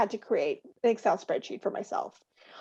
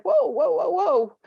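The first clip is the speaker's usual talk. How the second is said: flustered listener. Retold or imitated. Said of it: "the person's like".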